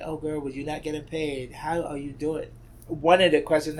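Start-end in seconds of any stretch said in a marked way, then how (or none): 0.0-2.5 friend's scolding voice. Retold or imitated. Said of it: "And she was like".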